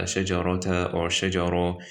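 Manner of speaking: "shajarata" with open -ta, "shajara" with open aa; wrong stops. Shown as a demonstration. Teacher showing what you don't say, wrong stops. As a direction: end both "shajarata" and "shajara" on vowels, no h. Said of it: "then you don't say".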